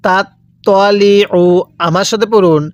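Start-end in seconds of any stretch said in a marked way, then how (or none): 0.1-1.4 slow "তাত তলি উ", the ত in "তলি" heavy and rounded; correct letter sounds. Shown as a demonstration. Teacher repeats for learners to follow, careful "তলি" with heavy ত. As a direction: draw out "তলি" with a full, dark ত. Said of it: "কিভাবে পড়ব?".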